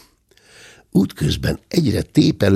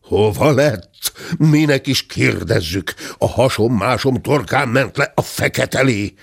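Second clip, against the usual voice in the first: angry shout; 4 semitones higher than usual. Acted. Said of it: "dühösen kiáltotta".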